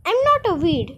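a touch of sweetness; lightly sweet, coy reply; sweetly. Acted. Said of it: "the flower replied sweetly".

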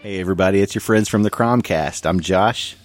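ordinary delivery

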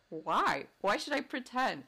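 retold incredulous "why", pitch swooping; lively re-enacted objection; incredulous retort. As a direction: push back in mock disbelief. Acted retort to interviewer's request.

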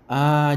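loud satisfied sigh. Acted. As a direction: exhale after a strong drink. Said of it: "fazem sair lágrima".

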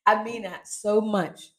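slow, chuckling through the words; amused, cracking herself up; laughing. Real, not acted. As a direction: laugh at your own line. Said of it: "I'm laughing because I'm cracking myself up".

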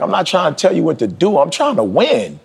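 high, pleading insistence; retold earnest plea, pitched high; insistent coach. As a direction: push it like a coach who wants you to win. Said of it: "Dee Dee was like".

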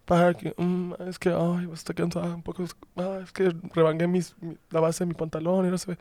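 a hint of the president rambling; imitating Claudia Sheinbaum. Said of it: "Yo así".

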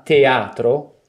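تشديد على A في teatro; open a stress. Shown as a demonstration. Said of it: "la vocale tonica è la A".

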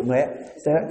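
ordinary delivery

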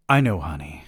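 put-on calm the little girl lightly; soothing. Father kneeling to calm his daughter, mildly soothing. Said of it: "I said soothingly".

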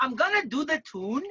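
puzzled Geordie copy, rising at the end; questioning try at Geordie "tune"; attempted Geordie accent. Shown as a demonstration. Bronx groomer unsure of the phrase, questioning Geordie attempt. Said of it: "you have a go".

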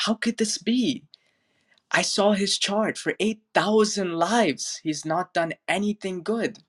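high, outraged protest from jealous disciples; indignant disciples. Retold or imitated. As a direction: pitch it up in shocked disbelief. Disciples protest the criminal's enlightenment.

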